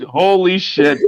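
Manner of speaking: high, drawn-out astonishment; amazed. Real, not acted. Host concedes the guest reads it better, slowly amazed. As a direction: stretch it out, blown away.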